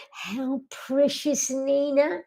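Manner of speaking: soft, slow coo to her pet. Real, not acted. Owner cooing softly to her dog Nina. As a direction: melt over the little dog.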